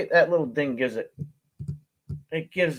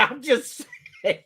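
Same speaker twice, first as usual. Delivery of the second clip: higher, laughing shout; shouted punchline; 9 semitones higher than usual. Real, not acted. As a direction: throw out the line with a laugh.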